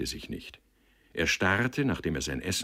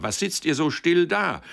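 much higher and louder jovial call; 12 semitones higher, 7 dB louder than usual. A narrator's reading. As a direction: rouse the gloomy table with booming cheer. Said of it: "rief er".

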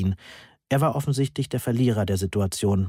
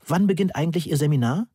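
mildly breathless, quick and higher-pitched question; 6 semitones higher, faster than usual. A narrator's reading. Student running up to the professor, breathless. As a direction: blurt the question out fast, a touch out of breath. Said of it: "fragte ich atemlos".

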